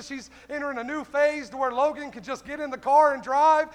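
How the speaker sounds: forceful, driving sermon delivery; fervent preaching. Real, not acted. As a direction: press the congregation with punched questions. Preaches to congregation.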